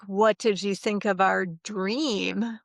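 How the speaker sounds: slow, drawn-out teasing question; playful teasing. Retold or imitated. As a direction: tease him with a knowing question, slowly. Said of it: "she was being funny".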